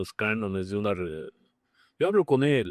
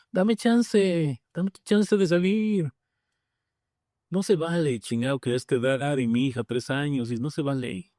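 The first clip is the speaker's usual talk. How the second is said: much higher, mock-pleading demand; demanding cry to God; 4 semitones higher than usual. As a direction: beg and demand, pitched well up. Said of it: "o le grité".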